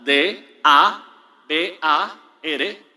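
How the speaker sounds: D A B A R spelled letter by letter, slow; spelling out. Shown as a demonstration. Teaching the Hebrew word, spelled slowly letter by letter. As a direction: spell each letter apart, deliberately. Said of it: "con una sola tilde en la A".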